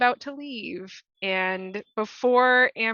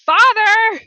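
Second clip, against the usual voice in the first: huge high-pitched yell for father; full-force calling shout; 17 dB louder than usual. Acted. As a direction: bellow it across the house, high and furious. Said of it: "she's gonna yell".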